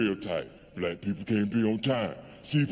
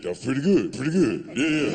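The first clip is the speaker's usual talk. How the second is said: lightly voiced whiskey cheering him on; a hint of a boozy inner voice, approving; Jack Daniels approving. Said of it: "that Jack Daniels said".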